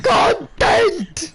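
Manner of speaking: high, loud laughing yell; laughing shout. Real, not acted. Laughing cheer after the race. (lachend gerufen)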